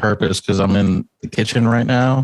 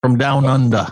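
higher-pitched mock-Aussie voice; Australian accent; 4 semitones higher than usual. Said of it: "Australian accent?".

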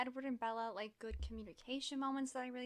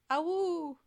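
high loud mock howl; wolf howl; 5 semitones higher, 7 dB louder than usual. Wolf runs away, howl.

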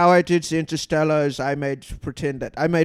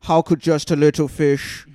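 Werner Herzog impression. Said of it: "Werner Herzog".

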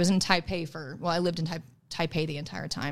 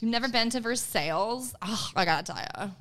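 mock bougie shock, pitched up; playful bougie put-on; 3 semitones higher than usual. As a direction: act aghast like a bougie traveller. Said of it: "that sounds so bougie of me".

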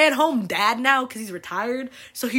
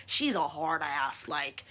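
much lower, softer, slower; low aside; 6 semitones lower, 6 dB quieter, slower than usual. Real, not acted. Telling viewers about her mom, low and soft. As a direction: drop it low like a confession.

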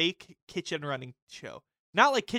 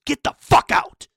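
much higher, much louder, slow rasping yell; mock screamed order; 12 semitones higher, 16 dB louder, slower than usual. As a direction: throw him out with a yell. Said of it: "he goes".

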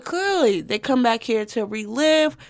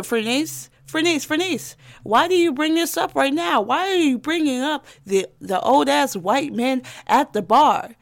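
questioning listener voice; 4 semitones higher than usual. Retold or imitated. Imagined listener questioning her.

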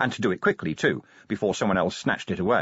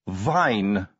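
malicious; 7 semitones higher, much slower than usual. A narrator's reading. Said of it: "said Angua maliciously".

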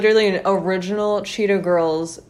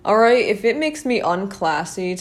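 defiant outburst; 3 semitones higher than usual. Real, not acted. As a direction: throw it out defiantly. Defiant rant about flat shoes.

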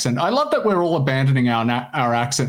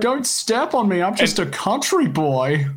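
put-on higher, pleading country-boy voice; 6 semitones higher, slower than usual. Host plays a frightened country boy to friends, higher pleading. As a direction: beg not to be stepped on.

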